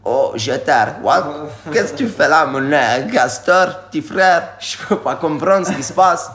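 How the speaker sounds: a hint of an old Cajun villager calling out; old Cajun man. Shown as a demonstration. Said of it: "I play more the, the old one".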